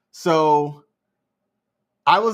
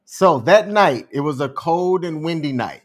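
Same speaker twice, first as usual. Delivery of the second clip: storyteller opening; 3 dB louder than usual. Retold or imitated. Friend begins telling the balloon story, storyteller opening. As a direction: set the scene like a storyteller. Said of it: "you setting up a story".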